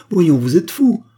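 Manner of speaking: sharp, indignant outcry; startled protest. A narrator's reading. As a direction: push him off with your voice. She pushes him away.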